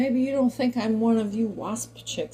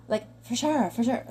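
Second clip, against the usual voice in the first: lightly imitated Valley Girl, a bit higher; 4 semitones higher, 4 dB louder than usual. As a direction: toss off for sure like a mock Valley Girl. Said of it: "that Valley Girl speak".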